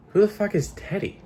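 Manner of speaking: high-pitched baffled reaction. Real, not acted. Player reacts to the name on a recipe, baffled.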